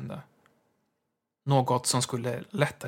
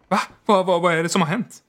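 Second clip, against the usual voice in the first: startled; 6 semitones higher, 7 dB louder, faster than usual. A narrator's reading. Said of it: "Han for förskräckt upp".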